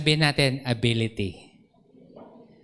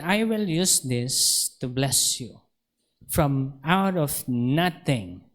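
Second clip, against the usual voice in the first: solemn divine voice; much slower than usual. Retold or imitated. Voice of God quoted.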